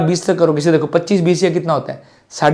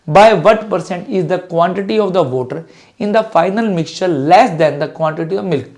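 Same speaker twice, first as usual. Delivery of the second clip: slow reading; much slower than usual. Shown as a demonstration. Teacher reads question aloud slowly.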